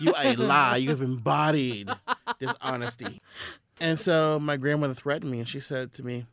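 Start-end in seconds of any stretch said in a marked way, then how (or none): 0.0-3.2 laughing grandma imitation. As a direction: relish the scolding while laughing. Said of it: "Southern black grandma talk".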